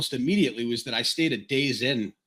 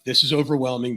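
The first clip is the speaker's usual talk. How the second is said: a touch of panic, pushed a little louder; half-hearted overwhelmed gasp at the city; mock panic; 4 dB louder than usual.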